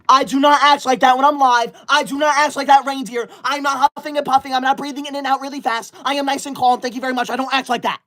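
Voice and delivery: indignant. Real, not acted. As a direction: protest primly. Denying she acts like reindeer.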